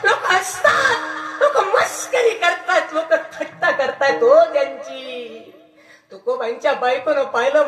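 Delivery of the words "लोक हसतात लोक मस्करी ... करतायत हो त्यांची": higher, louder, urgent half-laughing report; breathless villager reporting. Retold or imitated. Villager running to tell the wife, excited and louder. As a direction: rush in with the shameful news, a bit overplayed. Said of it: "पळत पळत ... सांगितलं".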